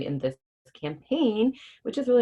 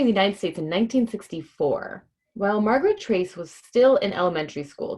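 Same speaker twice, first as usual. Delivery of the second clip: put-on reading to children; 2 semitones higher, 3 dB louder than usual. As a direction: read it out brightly to the kids. Reads picture book to children.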